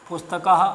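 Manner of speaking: पुस्तकः ending in a breathy half ha; visarga as half ha. Shown as a demonstration. Teacher demonstrating पुस्तकः with a half ha at the end. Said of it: "आधे हा की ध्वनि देता है".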